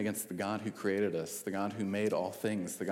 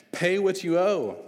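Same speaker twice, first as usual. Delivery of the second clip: slow furious shout, much higher and louder; angry demand; 9 semitones higher, 8 dB louder, slower than usual. A narrator's reading. Servant throttling his fellow servant, shouting. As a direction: bark the debt at him while choking him. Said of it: "he began to choke him".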